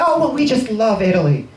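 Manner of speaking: mock gushing. Customer telling the waiter they love Italy, mock gushing. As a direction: gush it like a charmed tourist.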